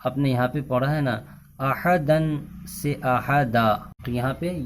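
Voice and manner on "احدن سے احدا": احدن with nunation, then احدا with a long a; pausal form demo. Shown as a demonstration. Teacher reminds students of the pause rule. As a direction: contrast احدن and احدا clearly. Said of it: "ایک الف کی مقدار اس کو کھینچا جاتا ہے".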